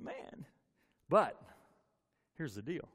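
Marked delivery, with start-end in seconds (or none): 0.0-0.5 whispered sigh. Retold or imitated. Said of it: "I'm thinking".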